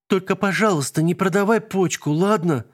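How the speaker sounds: put-on high small girl's plea; child's request. A narrator's reading. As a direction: ask earnestly like a child. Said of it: "попросила Алинка". (детская просьба)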